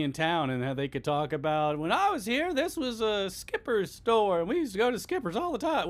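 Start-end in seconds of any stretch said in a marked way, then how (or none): 1.8-5.9 higher, light voice of a chatty local; chatty townsperson. Retold or imitated. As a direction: lightly voice a nostalgic neighbor. Imagined townsperson interview.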